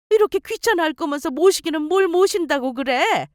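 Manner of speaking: put-on nagging, reproachful older mother; lightly voiced mother laying on the guilt; scolding mother-in-law. Mother-in-law berates her son over chores, reproachful scolding.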